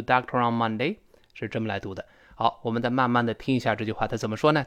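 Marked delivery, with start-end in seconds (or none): 0.0-1.0 "doctor on Monday" with r linked into on. Shown as a demonstration. Teacher shows how r links, linked words. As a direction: run doctor into on, dahk-te-ron Monday. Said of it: "R跟on连读".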